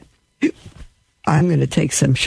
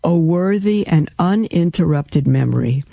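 devotional reading. Acted. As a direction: read it like a prayer of praise. Reads papal bull aloud.

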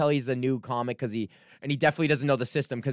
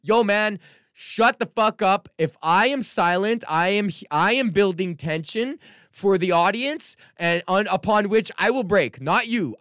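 higher, louder, slow scolding; telling off a heckler; 7 semitones higher, 4 dB louder than usual. Retold or imitated. Comic retelling how he shuts down a heckler, loud and slow. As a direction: put the drunk guy in his place, slow and firm. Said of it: "my classic thing where I'm like".

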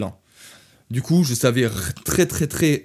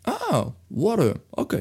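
slow, higher mock Irish "Ah, water"; Irish steward; 9 semitones higher, much slower than usual. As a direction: drawl it out like the Irish steward finally getting it. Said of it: "Il me fait". (steward irlandais qui comprend enfin, lent et aigu)

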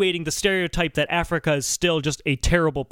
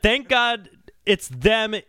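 mock quote of a rock singer; 4 semitones higher, much slower than usual. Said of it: "He just said".

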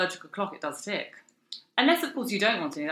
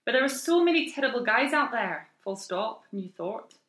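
slow, delicate Scottish lilt; Scottish accent; 3 semitones higher, slower than usual. Acted. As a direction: read it out in a melodic Perthshire accent. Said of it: "Shall I read it in a Scottish accent?".

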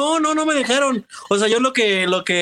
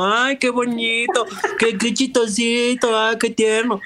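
doting relative; 3 semitones higher, much slower than usual. Retold or imitated. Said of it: "todos dicen como".

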